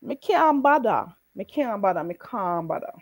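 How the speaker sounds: Jamaican Patois. Shown as a demonstration. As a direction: repeat it, dropping each time. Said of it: "Try it again".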